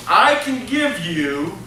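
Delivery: a slow, faint hint of a Brazilian accent on I can give you; lightly put-on Brazilian accent, drawn out. Tomas pitching the hotel owner, faint Brazilian accent. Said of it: "I'm gonna drop the accent".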